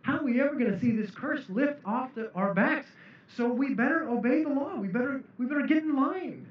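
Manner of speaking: a Pharisee worried the curse will stay; anxious Pharisee. Acted. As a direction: play a nervous Pharisee getting in line. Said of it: "the Pharisees are thinking".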